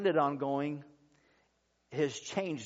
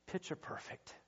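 breathy hush, barely voiced; hushed near whisper; 3 semitones higher, 14 dB quieter than usual. Pastor quoting the grieving uncle, hushed near whisper. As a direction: let the words fall to almost nothing.

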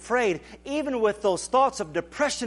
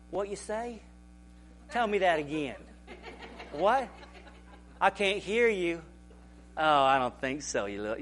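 mocking. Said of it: "I start mocking him".

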